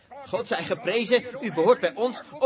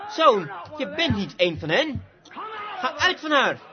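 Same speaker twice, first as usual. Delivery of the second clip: mother eagle's cry building to a high shout; mother bird shouting for her son to come out; mother eagle calling out; 6 semitones higher than usual. Acted. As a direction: call the eaglet out of the coop, rising to a shout. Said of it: "Ze schreeuwde".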